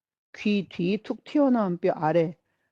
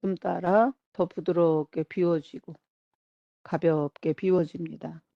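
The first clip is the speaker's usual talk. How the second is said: measured meditation-guide voice with long pauses; guided body scan. Acted. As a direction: ease them through each body part, phrase by phrase. Leads a whole-body relaxation. (천천히 짚어 가는 이완 명상 안내)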